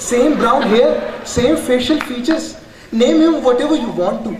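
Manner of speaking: high, gushing doting voice; gushing cousin. Retold or imitated. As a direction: coo over the puppy like a doting owner. Cousin voiced gushing over puppy.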